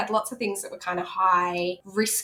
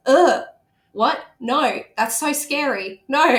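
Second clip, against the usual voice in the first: alarmed refusal; 5 semitones higher, 6 dB louder, slower than usual. Retold or imitated. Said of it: "my first response was".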